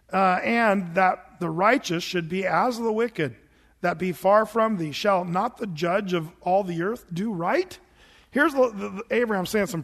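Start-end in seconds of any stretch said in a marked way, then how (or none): 0.4-7.8 put-on slow, solemn reading of old scripture. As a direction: read the King James words slowly and gravely. Reads KJV scripture.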